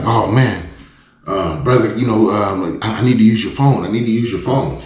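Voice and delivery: lightly acted panicky stranger; frantic. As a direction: play him anxious, rushing to ask. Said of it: "frantically, like, panting".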